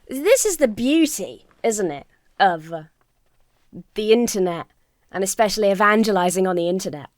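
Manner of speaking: rough rasp like years of smoking; smoker's rasp. Real, not acted. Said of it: "I sound about eighty fucking years old".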